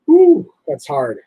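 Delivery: breathless, slow exhale; winded after exertion; out of breath. Real, not acted. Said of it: "That was hard on me".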